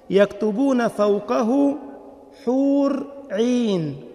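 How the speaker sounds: very slow, each word drawn out; slow emphasis. Shown as a demonstration. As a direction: spell out "حور عين" slowly and deliberately. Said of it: "شوف الدقة في النسخ". (ببطء شديد للتأكيد على "حور عين")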